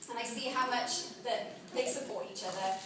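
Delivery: heartfelt wedding speech, read aloud; wedding toast. Acted. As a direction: give the bridesmaid's toast. Bridesmaid reads wedding speech.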